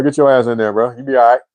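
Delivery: ordinary talk, nothing marked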